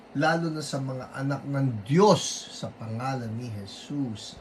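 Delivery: firm declaring prayer, commanding the sickness out; rebuking prayer. Acted. Host praying over viewer's cancer, firm rebuking prayer. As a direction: pray with authority against the illness. Prays against colds and virus.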